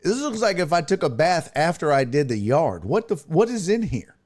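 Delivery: high, fast grossed-out rant; mock revulsion at a murky drink; disgusted complaint. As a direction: sound repulsed by the floaties. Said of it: "I'm like".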